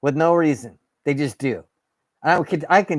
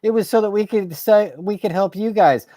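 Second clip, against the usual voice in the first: mocking politicians; 6 semitones higher than usual. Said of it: "you're gonna turn around and say".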